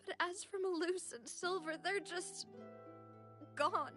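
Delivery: distressed, voice lifting with grief; grief-stricken. Acted. Woman mourning friends lost in the flood, grief-stricken. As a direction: tell it through welling grief.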